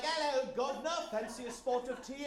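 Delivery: hammed-up British accent, pitched high and loud; cartoonish, high-pitched British catchphrase. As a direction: put on a comic British accent. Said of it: "Heavy with British accents and phrases like".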